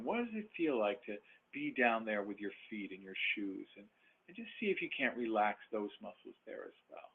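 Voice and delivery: body scan meditation. Acted. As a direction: gently guide attention down the body.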